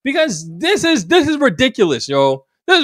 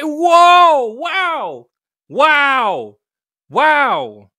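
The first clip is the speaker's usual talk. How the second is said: shocked whoa; 5 semitones higher, much slower than usual. Real, not acted. Reacting to the footage.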